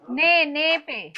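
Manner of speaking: slow "ने, ने पे", with ने repeated and leaned on; teacher stressing ने for a student. Shown as a demonstration. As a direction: hit ने, not शन. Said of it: "not शन".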